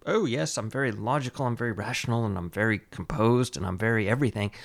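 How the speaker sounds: low, measured mock-rational man; composed rationalist. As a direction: parody someone smugly logical and composed. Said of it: "he sounded completely like".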